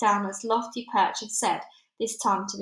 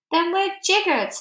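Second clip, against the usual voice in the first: high, loud despair; cried; 10 semitones higher, 8 dB louder than usual. A narrator's reading. Army general giving up, high and loud. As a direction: throw up hands in dismay. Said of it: "cried the army general".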